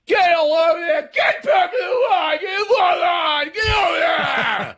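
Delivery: high-pitched full screamed orders; screaming TSA agent. Retold or imitated. Airport line worker yelling at sleepy travelers, screaming. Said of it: "screaming at us at four thirty in the morning, screaming, screaming".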